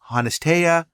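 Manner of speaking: Honestea read as one odd run-together word; mispronounced brand name. Shown as a demonstration. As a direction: sound out Honestea as "hon-es-tay-a". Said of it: "the other could be pronounced".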